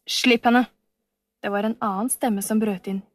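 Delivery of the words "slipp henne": louder, fierce command; wild shout. Acted. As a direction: bark it to protect her. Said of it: "vill og livsfarlig".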